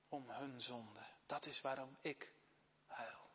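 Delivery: God gently grieving over His people; tender divine voice. Acted. God speaking tenderly to Jona. (teder en bedroefd)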